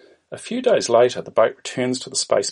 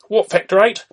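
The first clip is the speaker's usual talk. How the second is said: high, loud incredulous query; 12 semitones higher, 6 dB louder than usual. Acted. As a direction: blurt it back in disbelief. Kirk incredulous at speed limit.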